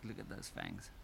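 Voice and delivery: a real hushed whisper over the fangs; awed whisper. Real, not acted. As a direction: breathe it out in hushed awe. Close-up on dripping fangs.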